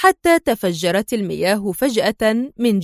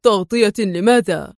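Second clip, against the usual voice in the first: surprised. A narrator's reading. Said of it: "سأله الرجل في دهشة".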